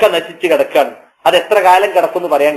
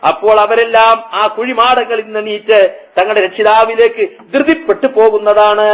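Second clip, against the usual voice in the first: Quran recitation; 3 semitones higher than usual. Acted. Preacher recites the rising from graves, chanting. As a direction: hold a level chant and stretch the endings. Recites verse, intones its translation.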